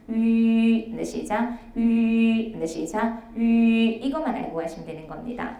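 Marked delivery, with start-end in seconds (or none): 0.1-0.9 loud 위 with lips fixed round, no glide; lips held rounded. Shown as a demonstration. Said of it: "입술 모양 바뀌면 안 되는". 3.3-3.9 loud 위 with lips fixed round, no glide; lips held rounded. Shown as a demonstration. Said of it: "입술 모양 바뀌면 안 되는".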